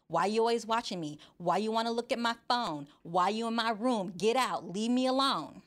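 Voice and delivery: put-on quick-fire teen complaints, building to the end; ornery teenager. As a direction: play a pestered teenager pushing a parent away. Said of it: "An ornery teenager".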